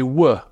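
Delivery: "were" as the W sound that replaces V; Dickensian Cockney W. Shown as a demonstration. Historian showing the old Cockney sound, "were" said as "wuh". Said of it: "what Mar-, marks Cockneys out is that they say".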